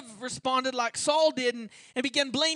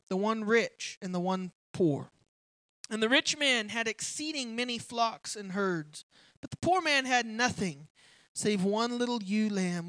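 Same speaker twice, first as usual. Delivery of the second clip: measured scripture read, a little lower; 3 semitones lower than usual. Acted. Preacher reading the Bible aloud to the church, measured and low. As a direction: read the King James passage steadily to the congregation.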